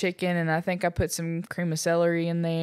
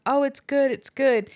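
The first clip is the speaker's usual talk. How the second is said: gushing praise; 8 semitones higher than usual. Retold or imitated. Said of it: "they're like".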